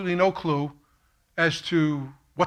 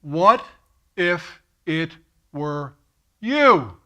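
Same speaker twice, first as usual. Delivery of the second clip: haunting voice; 3 dB louder, much slower than usual. Retold or imitated. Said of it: "he haunted me with these words".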